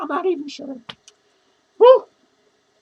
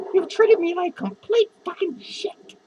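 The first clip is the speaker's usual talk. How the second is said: slow, half-laughing shout. Real, not acted. Drunk vlogger yells at viewers, laughing shout. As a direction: yell it out while laughing.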